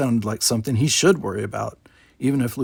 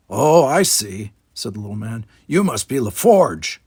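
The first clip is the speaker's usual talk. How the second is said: put-on grumpy old man; 4 dB louder than usual.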